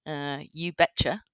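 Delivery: put-on slow, drawn-out "you betcha" in a light North Dakota accent; mock North Dakota accent. American in London jokes about her roots, mock North Dakota accent. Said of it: "that's how they say it in North Dakota".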